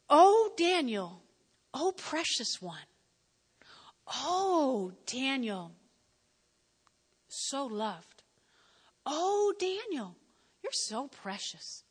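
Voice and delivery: tender. Acted. Tender reading of Jesus' words.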